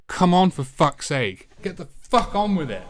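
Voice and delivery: impatient gamer venting at a slow animation; frustrated grumble. Retold or imitated. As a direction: drag it out, fed up with waiting. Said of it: "I often found myself sitting there saying".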